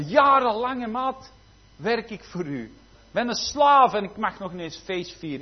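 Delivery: put-on indignant older brother griping to his father; angry older brother. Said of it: "je even inbeelden dat hij woedend was".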